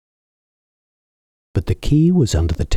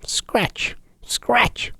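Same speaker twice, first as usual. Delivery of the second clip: breathy unvoiced scratching words; whispered scratch; 5 dB quieter than usual. A narrator's reading. Simpkin scratches at the shutters in a whisper. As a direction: whisper the scratching like a cat at the sill. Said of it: "scuffled Simpkin".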